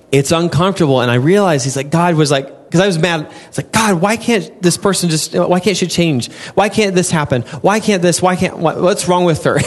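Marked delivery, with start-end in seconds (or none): 3.7-9.6 a touch of exasperated whining to God; whiny complaint. Retold or imitated. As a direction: complain like you're fed up with her. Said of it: "that was my attitude".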